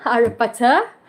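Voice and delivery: imitated British accent, dropped R's; British-style Harry Potter with open endings. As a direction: try a light British accent. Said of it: "British accent talking together, like".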